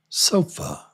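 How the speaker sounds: "sofa" whispered, ending in a weak uh. Shown as a demonstration. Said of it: "here it is on the end".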